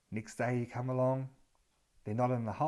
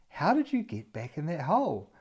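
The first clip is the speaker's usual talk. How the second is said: baffled question; 5 semitones higher than usual. Acted. Baffled rescuer finds them back.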